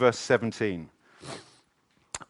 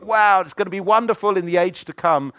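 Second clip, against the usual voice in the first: mock wonder; 8 semitones higher, 7 dB louder than usual. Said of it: "you think".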